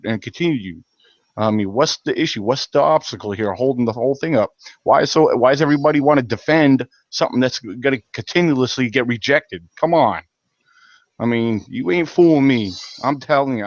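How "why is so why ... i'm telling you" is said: pissed off. Real, not acted. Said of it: "sorry if I'm getting pissed off".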